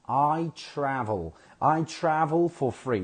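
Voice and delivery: "I travel for free" with a smooth, untrilled R; American R. Shown as a demonstration. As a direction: model "travel" with an American R, no roll. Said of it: "So you have to say".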